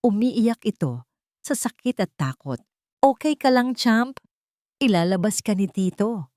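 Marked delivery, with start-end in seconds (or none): 3.0-6.3 trying to sound calm. Acted. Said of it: "pinakakalmado niyang boses".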